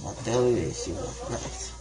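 numb mouth, slurred words; talking with a numb lip; numb from the dentist. Real, not acted. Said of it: "I can't feel my tongue in my lip".

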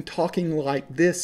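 put-on slow, affected proper accent; mock classmates hiding their hill accent; drawn-out imitation of a fake educated accent. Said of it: "you might hear them saying".

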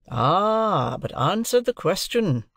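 high, pressing demand; insistent lawyer. A narrator's reading. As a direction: hold the witness to the question. Lawyer demands a straight answer.

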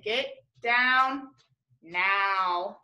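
stretched, firm order; firm command. Shown as a demonstration. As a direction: tell them to get off the chair. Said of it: "'cause I say".

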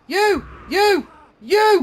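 rising yell. Pretend. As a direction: build to a full shout. Escalating accusing shouts at teammate.

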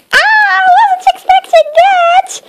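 high startled cry. Acted. Mister Surprise startled by Little Miss Scary's boo. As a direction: caught completely off guard.

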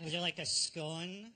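creepily suggestive offer; creepy. Shown as a demonstration. Panellist showing that even a scone sounds creepy, creepy. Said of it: "Everything's quite creepy when you say it like that".

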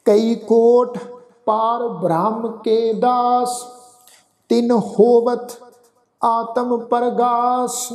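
measured, drawn-out recitation of Gurbani with long pauses; slow scripture recitation. Acted. Teacher reciting the path slowly for the sangat to follow. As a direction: lift the start of each verse and let the words sit.

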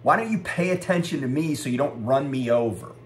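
exasperated retold yelling at normal volume. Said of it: "I yelled at him".

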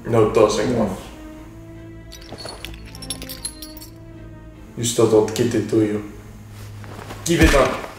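lightly put-on Russian interrogator; Russian accent. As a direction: lean into a mild Russian accent. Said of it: "why I'm making him Russian".

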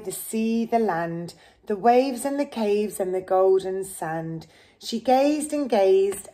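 steady storybook read-aloud; reading to children. Acted. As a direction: read the rhyme gently to a child. Reads picture book to child.

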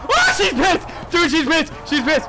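high yelp easing down by repeats; alarmed warning. Real, not acted. Player warning dude she's pissed, alarmed cries. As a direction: call it out in alarm. Warns monster is enraged.

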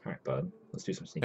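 playful high whisper; sneaky whisper. Pretend. Streamer starting a stealth run, playful whisper. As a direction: breathe it out like a cartoon sneak.

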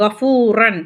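கஃபூரன் with the ஃபூ drawn out; lengthened long oo. Shown as a demonstration. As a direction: stretch the "foo" in கஃபூரன். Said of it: "நம்ம நீட்டி படிக்கிறோம்".

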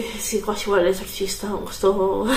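blocked nose, sick voice; stuffed-up nasal cold voice. Real, not acted. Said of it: "sta voce inquietante".

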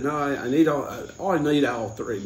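badly done Australian-Irish mix; clumsy Aussie-Irish attempt; Australian-Irish accent. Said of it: "he was Australian Irish".

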